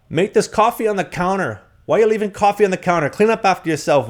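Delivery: shrill scolding roommate. Retold or imitated. Mocking his roommate's scolding, high and loud. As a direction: squeak out her complaint like a nagging flatmate.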